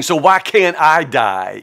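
anguished plea. Retold or imitated. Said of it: "Job is saying".

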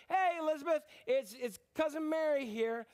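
Mary calling in, high and eager; cheerful greeting. Acted. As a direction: call out happily to a cousin at the door.

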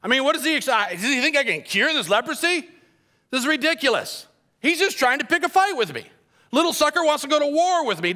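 high, frantic king in a panic; panicked king. Retold or imitated. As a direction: squeak and sputter like a cornered king. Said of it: "reading this letter and going".

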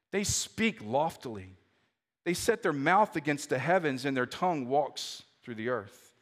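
slow, low and measured reading of the psalm; slow scripture reading. Shown as a demonstration. Preacher reading Psalm seventy-three slowly to the congregation. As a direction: let each verse land slowly. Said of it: "I'm gonna read it slowly".

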